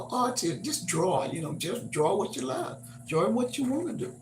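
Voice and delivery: holding back tears, choked up. Real, not acted. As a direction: voice tight with emotion. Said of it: "I'm choking up here".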